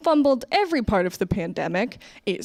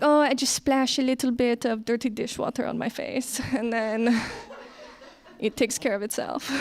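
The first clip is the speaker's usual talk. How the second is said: breezy roommate impression; 3 semitones higher, 3 dB quieter than usual. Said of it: "she's like".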